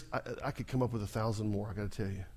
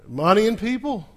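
loud call-and-response; 8 semitones higher, 9 dB louder than usual. Real, not acted. Preacher leading congregation in chant, loud call. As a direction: belt the refrain high and loud. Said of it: "Say it with me".

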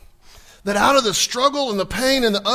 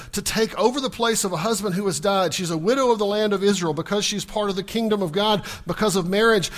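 ordinary delivery

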